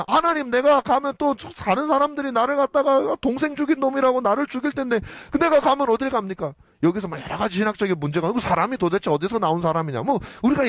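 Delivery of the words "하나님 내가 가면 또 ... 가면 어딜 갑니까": pleading Cain. Retold or imitated. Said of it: "가인이".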